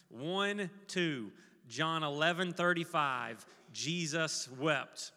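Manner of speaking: measured call to recite together; leading group recitation. Shown as a demonstration. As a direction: count in, then recite slowly and deliberately. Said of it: "On the count of two, we're all gonna say".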